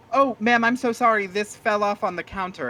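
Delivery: shopkeeper voice. Acted. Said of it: "he looks and goes".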